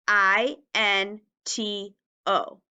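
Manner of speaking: letters spelled out slowly; slow spelling. Shown as a demonstration. Teacher spelling the word slowly for the class. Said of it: "Repeat after me".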